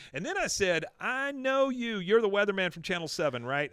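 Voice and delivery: acted excited anecdote; animated storyteller. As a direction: retell it with eager self-importance. Acting out Peggy telling her story.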